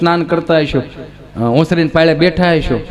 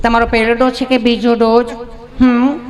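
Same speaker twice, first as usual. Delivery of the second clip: high, lilting nurse voice; coaxing nurse, pitched up; sweet-talking nurse; 4 semitones higher than usual. Acted. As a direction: ask lovingly in a high put-on voice. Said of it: "તમે કેટલું પ્રેમથી પૂછો છો".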